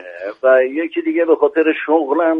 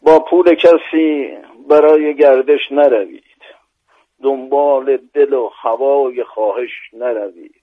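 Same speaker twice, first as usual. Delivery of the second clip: measured, rhythmic verse reading; poem recitation. Acted. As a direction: recite the quatrain with weight. Recites a rubai.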